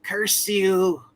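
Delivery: high-pitched villain's curse; Dracula. Acted. Game master voices Dracula turning into mist, high villain curse. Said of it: "just kinda like".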